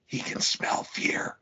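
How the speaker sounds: slow creepy whisper. Pretend. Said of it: "lean over and be like".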